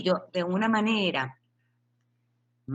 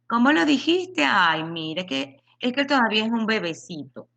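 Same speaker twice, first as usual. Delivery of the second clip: mock doting family; 4 semitones higher than usual.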